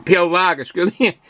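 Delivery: talking between sips of beer; drinking while talking. Real, not acted. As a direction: mouth still wet from a sip. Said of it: "I'm trying to drink and talk".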